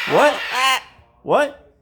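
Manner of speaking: high questioning what to a bird; rising what. Real, not acted. Puzzled at the parrot, high rising. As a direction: lift what up high and curious.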